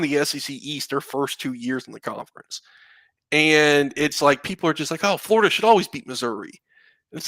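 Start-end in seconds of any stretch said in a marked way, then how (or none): 5.0-6.5 quick, mocking dumb-fan voice; stupid fan accent. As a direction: rattle it off like a smug fan. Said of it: "I do such a stupid accent for our fans".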